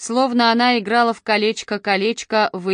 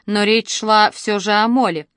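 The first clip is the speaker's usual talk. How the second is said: ordinary delivery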